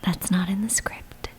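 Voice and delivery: whisper yelling. Real, not acted. Sisters bicker while whispering.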